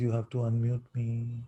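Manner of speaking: normal talking voice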